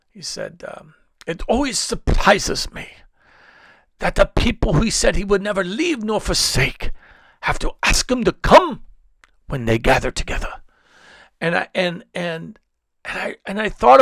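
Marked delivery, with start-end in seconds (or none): 1.3-10.6 a lightly voiced older preacher, a touch higher; Ron Hardbonke voice. Pastor quoting his mentor in a lightly imitated voice. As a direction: gently mimic a mentor's wise rebuke. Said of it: "in my best Ron Hardbonke voice".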